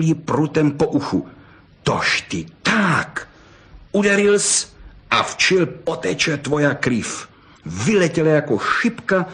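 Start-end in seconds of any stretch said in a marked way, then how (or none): 1.8-7.3 very slow, menacing vixen; the struck fox turning dangerous. Acted. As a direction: drag it out as a threat. Fox provoked, struck on the ear.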